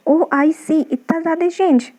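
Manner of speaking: slow, mildly acted amazement; astonished. Shown as a demonstration. Teacher acting out surprise as a memory trick, astonished. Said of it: "जब कभी बहुत आश्चर्यचकित होते हैं".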